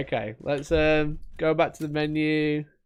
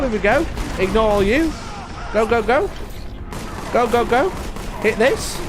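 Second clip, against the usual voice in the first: excited; 4 semitones higher than usual. Real, not acted. Hyped run, urging himself on.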